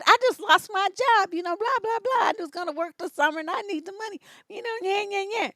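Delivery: high, loud, incredulous protest; can't believe dad said Good; indignant disbelief. Retold or imitated. Indignant retort to father.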